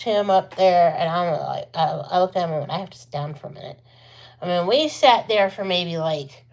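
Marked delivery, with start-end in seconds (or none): 2.7-3.8 fast, much softer, breathless aside; winded after pushing the wheelchair uphill; worn out. Retold or imitated. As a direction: puff it out, spent.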